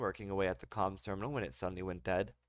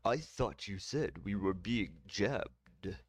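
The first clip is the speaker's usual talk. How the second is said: confused counselor; much slower than usual. Acted. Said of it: "Mombada said, confused".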